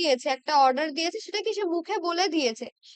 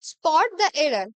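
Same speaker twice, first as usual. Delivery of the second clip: slow question reading; much slower than usual. Shown as a demonstration. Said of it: "next কি আছে".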